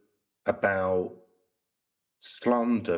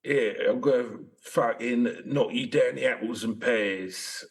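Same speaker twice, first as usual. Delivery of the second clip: mock Cockney threat; 2 semitones higher than usual.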